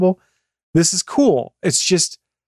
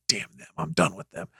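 pissed-off phone user; 10 semitones lower, 10 dB quieter than usual. Acted. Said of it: "you got really pissed off at them".

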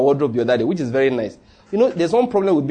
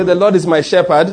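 leading a congregation; 5 dB louder than usual. Shown as a demonstration.

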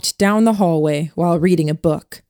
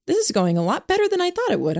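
excited remark; 13 semitones higher, faster than usual. A narrator's reading. Narrator remarking eagerly, fast high.

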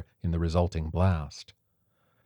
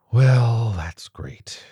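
louder then sighing off; 4 semitones higher, 7 dB louder, much slower than usual. A narrator's reading. Martha sighing over no signal, resigned. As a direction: sigh it out bitterly. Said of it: "she sighed".

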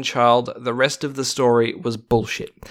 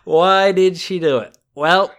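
vintage newsreel announcer, higher and louder; old-timey news voice; 5 semitones higher, 4 dB louder than usual. Acted. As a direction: read it like a 1950s newsreel narrator. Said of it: "your old-timey news voice".

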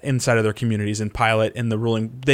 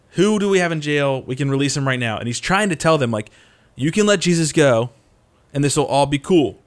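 louder and higher, pleading with a crowd; raised pleading voice; 3 semitones higher, 5 dB louder than usual. Retold or imitated. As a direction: call out over the crowd to win them. Pilate pleading loudly with crowd.

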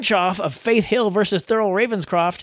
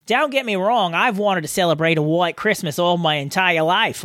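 put-on shaky Australian accent; 2 semitones lower than usual. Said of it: "talking in an Australian accent".

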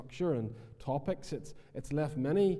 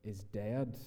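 slow quoting scripture; 3 dB quieter, slower than usual. Shown as a demonstration. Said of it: "by saying".

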